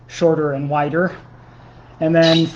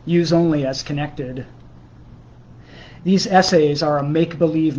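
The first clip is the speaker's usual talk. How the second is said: measured, deadpan literary reading; prose poem reading. Acted. Poet reading a mock-serious book on drugs to livestream viewers, measured recital. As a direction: read it out in measured phrases, pausing after each. Reads own prose poems.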